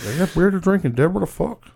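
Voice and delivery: high hick voice, laughing; redneck voice. Retold or imitated. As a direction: play the lazy redneck. Continuing the redneck Austin bit.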